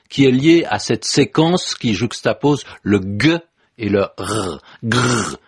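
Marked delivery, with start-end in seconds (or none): 4.8-5.4 growling dog voice. Shown as a demonstration. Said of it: "une onomatopée qui évoque quoi? Oh, le chien qui gronde".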